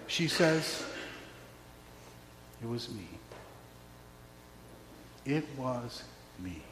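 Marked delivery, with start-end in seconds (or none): 2.6-6.6 hushed, trembling admission; much softer whispered-close confession; fearful confession. Acted. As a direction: barely dare to say it. Woman's confession in fear.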